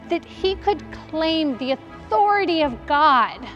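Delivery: agitated, rising rhetorical questions; worked-up, disbelieving tirade; incredulous self-reproach. Acted. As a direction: berate yourself in disbelief. Mary berates herself in disbelief.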